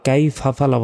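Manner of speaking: "কাইফা ফালা" run together without the ayn; mistaken pronunciation. Shown as a demonstration. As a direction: say "ফালা" as two syllables, ayn dropped. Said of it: "বলা যাবে না".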